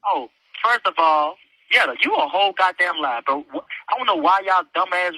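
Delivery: talking on speakerphone; speakerphone parent. Real, not acted. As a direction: voice through a phone speaker. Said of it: "put me on speaker".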